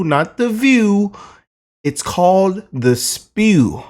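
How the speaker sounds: slow, mocking "The Spew" leaned on; stress on Spew. Real, not acted. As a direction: drag out "It's called The Spew" with scorn. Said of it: "the women on The Spew".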